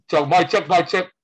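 mic check. Retold or imitated. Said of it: "nagsasalita na yun".

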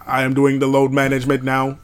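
flat mechanical robot delivery. Retold or imitated. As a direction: speak like a stiff robot. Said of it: "Robot voice".

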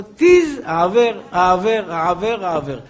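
lightly voiced spoiled girl clicking transfer; a hint of a giggling heiress; mock rich girl. Mimicking girl transferring money.

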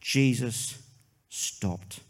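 Jesus, then a long pause, stopped whispered; preacher's hushed refrain, pause before stopped; hushed dramatic refrain. Acted. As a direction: let the pause hang before a breathy stopped.

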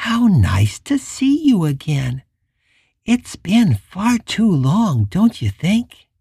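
put-on sweet child voice hiding menace; childlike menacing voice. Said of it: "higher-pitched and had a strange, childlike lilt".

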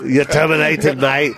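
light mock Aussie accent; playful imitation of an Australian. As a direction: fire someone in a put-on Australian accent. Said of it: "your best Australian accent".

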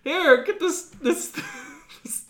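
high, loud excited mom voice; hammed-up eager mother handing it over. Mom voiced handing daughter toy.

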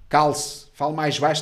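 loud mock order; bossy security guard. Guard telling a client to shut up, bossy. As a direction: imitate a guard shutting someone up. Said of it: "porque ele disse-me assim".

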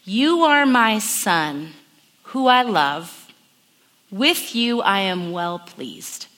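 slow, tender, reassuring; God's tender voice. Retold or imitated. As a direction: speak it like a loving father, slowly. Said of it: "what I think God sounds like".

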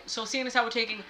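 hint of a grumpy old man. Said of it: "She put the o-, the old man voice on".

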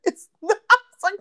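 slow, high laughing through the words. Real, not acted. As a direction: let the laugh carry the words. Laughing at husband's logic.

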